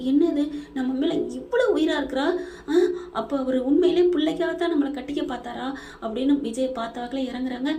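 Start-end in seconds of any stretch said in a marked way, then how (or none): 0.1-5.7 crying in disbelief. Acted. Shocked woman realizes she's loved.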